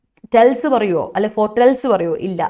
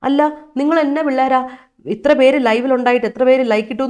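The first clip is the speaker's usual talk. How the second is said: mock scolding; 3 semitones higher, 4 dB louder than usual. Real, not acted. Teasing students for likes.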